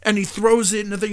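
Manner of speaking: ordinary talk, nothing marked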